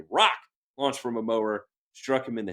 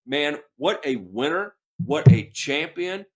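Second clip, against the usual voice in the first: admiring praise; 3 semitones higher, 6 dB louder, slower than usual. Real, not acted. Cohost praising the boy who survived, rising admiring cheer.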